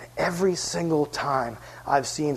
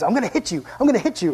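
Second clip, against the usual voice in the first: higher, playful imitation of a kid's threat; mock threat; 6 semitones higher, faster than usual. Translating the little boy's yell, mock threat. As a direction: repeat it with pitch jumping up.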